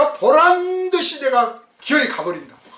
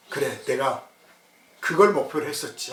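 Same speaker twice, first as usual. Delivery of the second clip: quiet self-reminder; 9 semitones lower, 5 dB quieter than usual. Retold or imitated.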